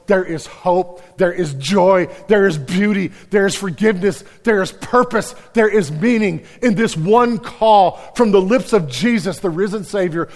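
loud, high, building sermon voice; preacher building to a climax; soaring preaching. Acted. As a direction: lift it to a full-throated call. Preaching rises again.

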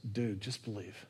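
Jesus's words, dropped way down to a hush; quietly urging the father to trust; gentle hushed Jesus. Retold or imitated. Jesus quietly tells the grieving father, soft and hushed.

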